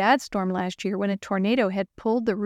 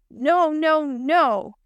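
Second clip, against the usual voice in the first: high desperate cries; despairing no; 6 semitones higher, 4 dB louder, much slower than usual. Acted. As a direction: wail in dismay. Phone dead, despair.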